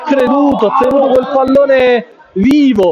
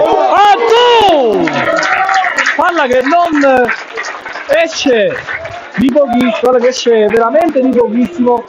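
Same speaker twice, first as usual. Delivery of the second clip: excited near-miss call; 4 semitones higher than usual. Real, not acted. Near miss shot, sudden cry.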